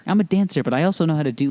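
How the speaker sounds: high-pitched mock dancer; dancer trainer girl. Trainer introducing herself on the show, high put-on voice. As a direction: lift your voice high as the dancer. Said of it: "the one girl who got".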